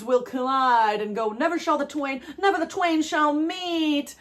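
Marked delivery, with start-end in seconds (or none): 1.3-4.1 imitating the viral video. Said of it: "I don't know if you've heard that video".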